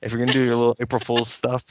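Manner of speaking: "if you're gonna do your little April Fool's stuff" whispered fast; whispered correction. Shown as a demonstration. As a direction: whisper the cleaned-up line quickly.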